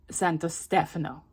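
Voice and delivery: Stefano said STEF-uh-no, first syllable stressed. Shown as a demonstration. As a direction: punch the first syllable of Stefano, middle one short. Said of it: "put the emphasis on the wrong syllable".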